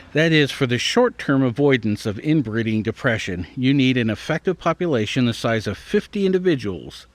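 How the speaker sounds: measured, slightly lifted read-aloud voice; careful article read. Acted. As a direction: read out a science article, clearly phrased.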